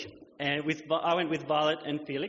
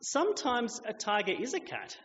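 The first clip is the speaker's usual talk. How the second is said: gentle explaining voice; 4 semitones higher than usual. Retold or imitated. Violet gently explaining to the girl, patient and kind. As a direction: explain it kindly like a patient parent. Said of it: "rather diplomatically and gently says".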